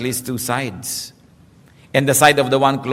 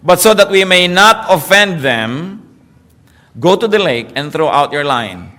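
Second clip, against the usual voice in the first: slow solemn Jesus; 3 dB louder, slower than usual. Acted. Jesus speaks in story.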